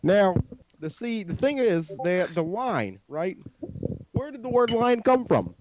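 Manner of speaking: lightly imitated president hosting a show; halting, deliberate statesman cadence; Obama. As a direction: muse like a president presenting a video. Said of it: "Obama here".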